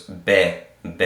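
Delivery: "be" with an open eh, as in bet; vowel demonstration. Shown as a demonstration. Teacher showing the Sheva sound, sounded out. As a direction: sound out "be" as a lone syllable, beh. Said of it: "so it goes be".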